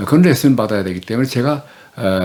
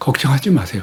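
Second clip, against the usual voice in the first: quavering, wobbly, trembling, shaky voice; 2 semitones higher than usual. Showing how a trembling voice makes reassurance fail, trembling, shaky voice. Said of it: "제가 아주 떨리는 소리로".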